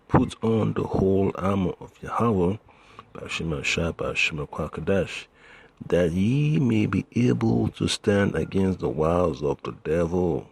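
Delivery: emphatic, declaimed Bible verse; scripture reading. Acted. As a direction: proclaim the verse with conviction. Reads scripture aloud.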